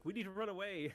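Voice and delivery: high panicked little soldier. Retold or imitated. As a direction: squeak it out like a scared grunt. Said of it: "It's like".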